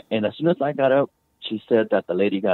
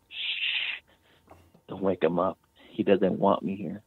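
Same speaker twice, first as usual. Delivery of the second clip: hushed, much softer ghost voice, retold; ghost's whisper; 6 dB quieter, slower than usual. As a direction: hush it like a ghost leaning over a sleeper. Ghost woman speaks over sleeping husband.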